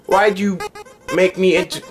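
high-pitched flower creature voice; Flowey. Acted. Flower addressing the player, high character voice. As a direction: put on a high cartoon voice. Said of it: "use Jack's voice for Flowey".

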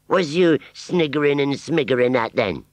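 high rustic demand; suspicious Wurzel. Acted. Wurzel questioning the giggling scarecrow, rustic suspicion. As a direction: squint and challenge the scarecrow.

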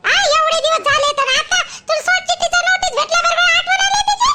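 accusing questions, pitch pushed up; indignant telling-off of a neglectful husband; scolding interrogation. Acted. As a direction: berate him with pointed questions. Woman berates husband for neglecting wife.

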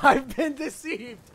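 loud, high, hammed-up outcry; mock betrayal. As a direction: cry it out in pretend shock. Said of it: "six roll deception".

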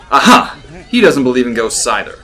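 loud, triumphant Aha; vindicated. A narrator's reading. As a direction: crow over being proven right. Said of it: "feeling vindicated".

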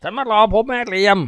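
a nervous addict begging; timid, high and pleading; meek junkie. Acted.

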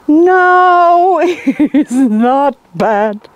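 high, loud, very slow "no, it's not bad"; forced denial. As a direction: protest too much, stretching it out. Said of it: "Oh, it's not good".

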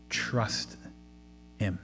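whispered exhortation. Real, not acted. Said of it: "closing exhortation, whispered".

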